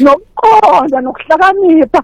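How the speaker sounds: slow, drawn-out verse recital; scripture recitation. Acted. Testifying believer quotes scripture to fellow worshippers, slow, drawn-out recitation. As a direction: recite it slowly, stretching the key words.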